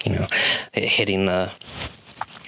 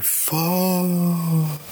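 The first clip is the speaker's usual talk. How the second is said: high squeaky curse; 11 semitones higher than usual. Acted. Enemy curses as it dissipates.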